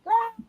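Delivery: high, short mock scream; imitated scream. Daughter recalling her fright in shower, mock screaming. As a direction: let out a high startled yelp.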